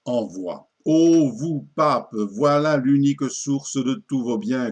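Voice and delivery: measured, declaimed satirical verse; poetry recitation. Acted. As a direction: recite it as a mock-solemn verse tale. Déclame l'envoi du poème. (déclamation de poème satirique)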